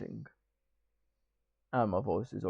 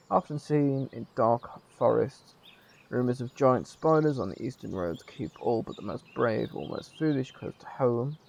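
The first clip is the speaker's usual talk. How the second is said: projected game narration, a little louder; story narration; 2 semitones higher, 6 dB louder than usual. Acted. Streamer reading village lore to viewers, storyteller narration. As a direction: read the opening lore out to listeners. Reads game's opening narration.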